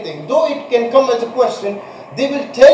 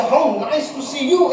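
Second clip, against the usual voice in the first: pleased surprise; 3 semitones higher than usual. Shown as a demonstration. Teacher greets someone, showing exclamatory surprise. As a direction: lift it with delight on "you". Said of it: "you're surprised to see the person".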